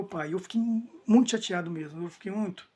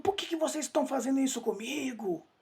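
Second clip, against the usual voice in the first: retold cry from afar; 6 semitones higher than usual. Father calling to visitors from afar, imitated high-pitched yell. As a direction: imitate a distant yell by raising pitch only. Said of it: "ele gritava assim".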